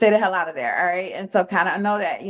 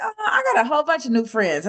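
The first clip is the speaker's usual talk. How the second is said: higher, laughing delight at all the new friends; pleased surprise; 6 semitones higher than usual. Retold or imitated. Trader replaying his happy inner thought, laughing. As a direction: sound tickled by the discovery.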